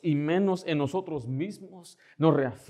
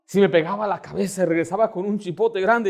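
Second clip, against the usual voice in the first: ordinary talk, nothing marked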